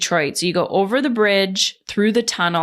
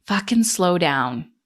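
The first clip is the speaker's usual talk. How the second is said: self-talk. Retold or imitated. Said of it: "I was just like".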